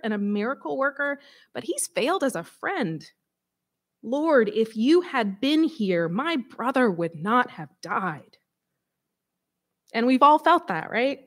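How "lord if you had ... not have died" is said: slow, pleading, heavy with grief; slow grieving plea. Acted. Mary at Jesus' feet, slow grieving plea. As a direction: let the loss drag each word. Mary's grief, reread slowly.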